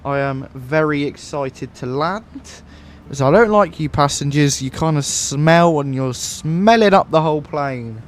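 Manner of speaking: lightly voiced airline captain announcement; a hint of cabin PA captain; Captain Skies pilot voice. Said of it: "We gotta do the pilot voice".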